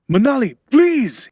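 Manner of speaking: high, loud, drawn-out scream; screamed plea. A narrator's reading. Man begging helper to light the fire, screaming. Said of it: "he screamed".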